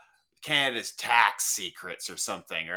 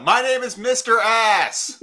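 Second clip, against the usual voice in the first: loud proud declaration; 10 semitones higher, 9 dB louder, slower than usual. Pretend. Pretend torture answers.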